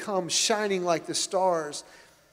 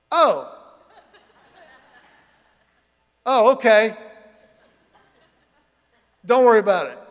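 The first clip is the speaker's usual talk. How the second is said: surprised relief; 5 semitones higher, 12 dB louder than usual. Retold or imitated. Driver suddenly calms down.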